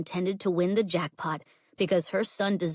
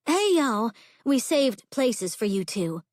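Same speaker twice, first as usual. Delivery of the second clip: calling out across the crowded yard, higher and louder; raised voice; 5 semitones higher, 4 dB louder, slower than usual. Acted. Friend calls the couple over to saved seats, raised voice. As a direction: hail your friends over to the table. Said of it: "Chigger raised her voice".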